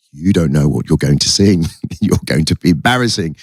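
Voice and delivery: a hint of a low, mocking inner voice; inner saboteur voice. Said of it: "my inner saboteur is going".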